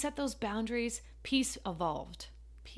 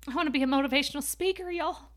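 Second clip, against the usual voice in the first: choked up; 4 semitones higher, 4 dB louder, faster than usual. Retold or imitated. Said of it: "got all choked up".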